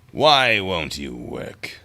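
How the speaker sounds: very slow pleading with the computer; pleading with a machine. Real, not acted. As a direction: drag it out, begging it to work. Computer not working on stream.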